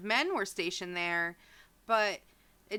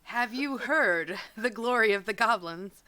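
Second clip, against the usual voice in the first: 1 mock preacher; 5 dB louder than usual. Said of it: "You sound like a Jehovah's Witness".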